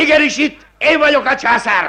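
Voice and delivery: high, loud, stress on én; pompous outburst. Acted. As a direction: proclaim yourself emperor. Magistrate asserts authority.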